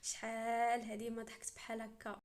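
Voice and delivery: acted chuckle before speaking; laughing. Sheikh to his visitor after a rare laugh, laughing. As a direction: start on a light laugh, then talk. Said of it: "يبدا كيضحك ويقول ليها".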